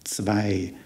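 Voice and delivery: "Zwei" begins with "ts" and then a "v"; German Zwei. Shown as a demonstration. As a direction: say "Zwei" as "tsvai". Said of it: "followed by the V sound of the W".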